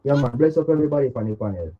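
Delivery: muffled, like through a wall; muffled phone. Real, not acted. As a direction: caller on a bad muffled line. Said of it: "You sound so muffled".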